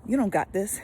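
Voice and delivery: mock sassy snatching back; a touch of a scornful retort; with attitude. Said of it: "with attitude like".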